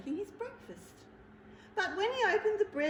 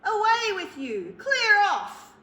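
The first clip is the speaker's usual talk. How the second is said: loud, higher shouted orders; furious bear shout; 9 semitones higher, 12 dB louder, slower than usual. Acted. Bear yells the mouse out of his bread drawer. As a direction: yell him out the door.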